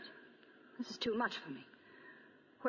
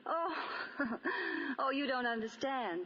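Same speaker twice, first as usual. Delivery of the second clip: nervous laugh; 4 semitones higher than usual. Acted. Nora arrested, protesting.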